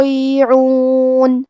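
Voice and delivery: slow یستطیعون with a breathy seen and heavy ta; یستطیعون with hams on seen. Shown as a demonstration. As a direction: recite یستطیعون slowly, seen whispered. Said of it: "ہمس سے پڑھنا ہے".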